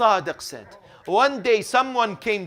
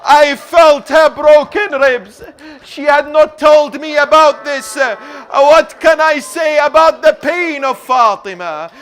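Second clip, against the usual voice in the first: loud, raised mourning oratory; impassioned lament preaching; 8 semitones higher, 12 dB louder than usual. A narrator's reading. Preacher tells mourners of Ali weeping, in loud lament. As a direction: declaim the grief at full force.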